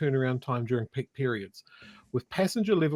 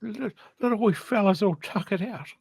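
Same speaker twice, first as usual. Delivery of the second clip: put-on cooing over a baby; 7 semitones higher than usual. Cooing over sleeping politician.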